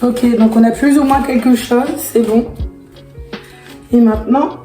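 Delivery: losing her voice, rough and strained; real laryngitis, voice half gone; hoarse voice. Real, not acted. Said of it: "j'ai une extinction de voix".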